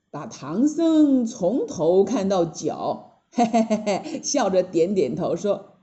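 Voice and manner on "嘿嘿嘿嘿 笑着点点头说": slow sly chuckle, then drawn-out question; sly demon chuckle. Acted. Demon Taoist sneering at the monk, slow and sly. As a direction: size him up with a smug snicker.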